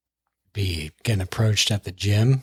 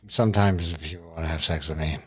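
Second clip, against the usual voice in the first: ASMR voice; 4 semitones lower than usual. Acted. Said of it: "the A S M R voice there".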